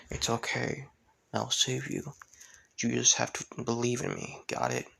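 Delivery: hushed, lightly voiced comfort; gentle, quiet promise; soft reassurance. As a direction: softly reassure a scared child. Hero comforts frightened child.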